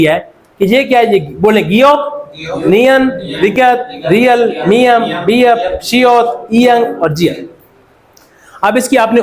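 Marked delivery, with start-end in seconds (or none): 1.6-7.5 slow recitation. Shown as a demonstration. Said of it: "reciting the consonant names".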